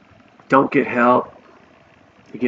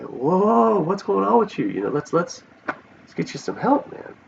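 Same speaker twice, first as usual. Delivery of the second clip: startled friends; 7 semitones higher than usual. Retold or imitated. Friends urge him to get help.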